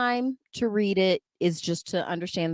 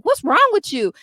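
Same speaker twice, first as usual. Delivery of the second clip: high, loud exasperated demand; mock scolding teacher; 8 semitones higher, 7 dB louder than usual. Teacher grabbing the angry kindergartner, mock scolding. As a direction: act out a teacher's raised-voice scolding.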